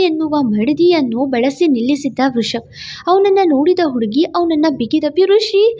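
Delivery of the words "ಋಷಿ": higher, tearful call of a name; a touch of breaking into tears; about to cry. A narrator's reading. Wife clinging to her husband, calling him tearfully. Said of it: "ಅಳೋದಕ್ಕೆ ಶುರು ಮಾಡಿದ್ಲು".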